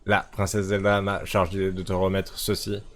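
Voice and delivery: light robot voice, even and steady. Acted. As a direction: play the game robot delivering a message. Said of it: "je fais la voix de robot parce que ça ressemble à un robot".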